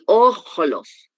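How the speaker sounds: "ojlos" slowly, long stressed O; stress on first syllable. Shown as a demonstration. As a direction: stretch OOJ-los, falling away. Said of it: "dónde está el acento para hacer la fuerza".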